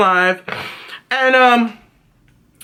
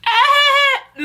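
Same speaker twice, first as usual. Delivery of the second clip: high buzzer-like noise. Real, not acted. Rejects the show's imagined taunt.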